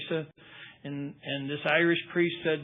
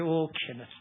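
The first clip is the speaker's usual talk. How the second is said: lightly voiced Irish priest's brogue; retold line in an Irish brogue; Irish accent. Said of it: "in this great Irish accent".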